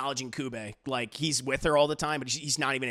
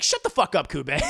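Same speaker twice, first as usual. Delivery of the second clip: mock angry snap; 4 dB louder than usual. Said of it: "That's what I would have said".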